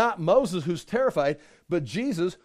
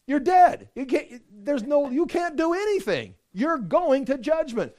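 forceful rebuke; 5 semitones higher than usual. Real, not acted. Preacher to stubborn sinner, forceful raised voice. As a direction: drive home that you're dead, raised pitch. Preacher rebuts imagined objector.

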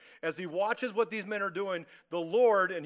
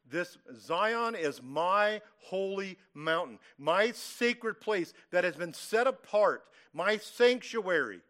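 solemn proclamation; 3 dB louder, slower than usual. Retold or imitated. Preacher proclaims God's words emphatically.

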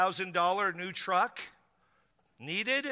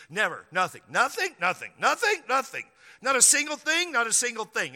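climbing, louder nothings, hammed-up; insistent denial; 4 semitones higher, 5 dB louder than usual. Pastor imitating a man denying theft, insistent. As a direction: insist harder and higher each time, mock. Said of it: "I had a guy tell me".

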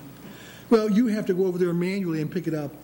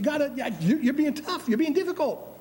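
complaining to God; 8 semitones higher than usual. Retold or imitated.

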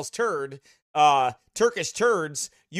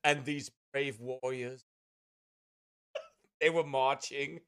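museum guide narration; 5 semitones lower, 12 dB quieter than usual. Retold or imitated. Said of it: "They're like".

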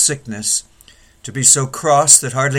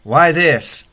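higher, louder anguished lament; lamenting complaint; 4 semitones higher, 4 dB louder than usual. Acted. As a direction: pour out the grievance like old Jacob. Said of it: "You've thought".

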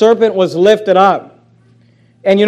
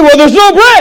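whiny complaint; 8 semitones higher, 7 dB louder than usual. Retold or imitated. Voicing the complaint.

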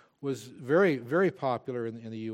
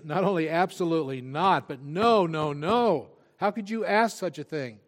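emphatic Paul; 2 semitones higher, 6 dB louder than usual. Retold or imitated. Preacher voicing Paul rejecting the idea, loud emphatic no. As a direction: refuse outright, then incredulous. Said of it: "it's like Paul saying".

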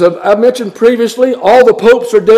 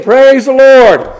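louder, drawn-out mock praise; imitated congregation cheer; 4 semitones higher, 4 dB louder, slower than usual. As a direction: imitate a cheering crowd's slow, higher shout of praise. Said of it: "people are cheering and clapping".

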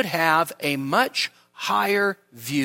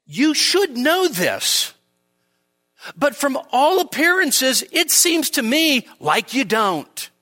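reproachful Paul; 8 semitones higher than usual. Retold or imitated. Paul rebuking the Corinthian church, higher reproachful tone. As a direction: scold them as a disappointed apostle. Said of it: "It's as if Paul is saying something like this".

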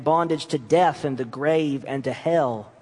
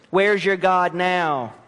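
mocking; slower than usual. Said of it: "mocked it, ridiculed it".

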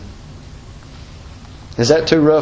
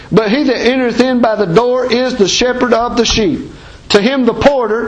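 raised, ringing King James reading; scripture reading; 3 semitones higher than usual. Acted. Preacher reading John ten to his church, ringing scripture voice. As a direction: proclaim the verses to the congregation.

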